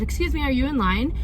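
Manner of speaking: politely asking, light and friendly. Retold or imitated. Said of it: "And I said it just like that".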